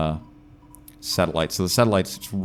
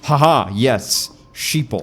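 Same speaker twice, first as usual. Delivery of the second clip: smug mock laugh; 4 semitones higher, 5 dB louder, much slower than usual. Mocking the inventor of sheeple.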